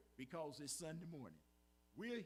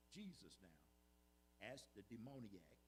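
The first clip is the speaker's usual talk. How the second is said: very slow, much softer and lower; hushed aside; 9 semitones lower, 12 dB quieter, slower than usual. Real, not acted. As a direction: drop almost to a hush, drawing it out.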